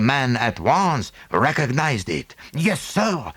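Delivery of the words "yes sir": asserting. A narrator's reading. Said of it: "he asserted".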